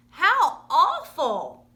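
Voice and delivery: slow, loud and drawn-out dismay; crying out. Acted. Lady elephants gasping at baby, loud slow dismay. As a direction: stretch out the shock loudly. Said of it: "they cried".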